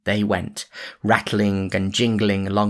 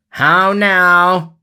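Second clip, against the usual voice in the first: much higher and louder exclamation; cried out; 10 semitones higher, 9 dB louder than usual. A narrator's reading. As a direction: call out in surprise. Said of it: "cried the sheriff".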